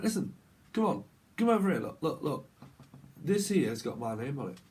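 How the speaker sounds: insistent northern English voice; northern accent. Acted. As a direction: demand attention in a northern accent. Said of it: "like, a northern accent".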